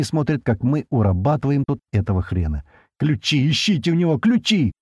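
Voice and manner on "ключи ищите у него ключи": high, urgent cry; yelling over the din. A narrator's reading. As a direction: call over crashing noise, pitch climbing at the end. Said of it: "Ору сквозь дикий грохот".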